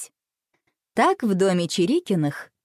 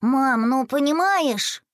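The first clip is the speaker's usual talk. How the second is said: slow, drawn-out pleading, pitched higher; 6 semitones higher, much slower than usual. A narrator's reading. Boy stalling his mother, slow drawn-out plea. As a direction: stretch it out, hesitating. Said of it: "протянул Рома".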